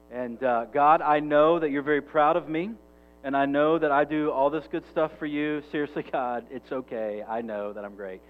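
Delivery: lightly voiced smug Pharisee praying; a hint of a self-satisfied boaster. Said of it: "That's basically what he sounds like".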